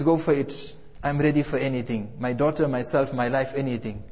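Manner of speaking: mother quietly offering her own life; fading resolve. Retold or imitated. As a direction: let it sink away to almost nothing. Mother offers everything to Fir'aun.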